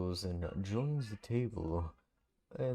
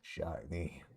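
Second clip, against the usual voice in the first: slow taunt; 3 semitones lower than usual. Acted. Character taunting slowly.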